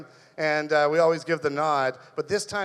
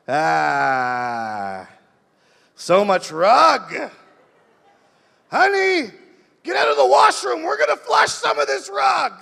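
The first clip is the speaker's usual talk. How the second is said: mock desperate husband bellowing high and loud; high frantic comic shout; frantic yell; 7 semitones higher, 6 dB louder, slower than usual. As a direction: yell at your wife through the washroom door, hammed up. Guy yelling to wife in washroom.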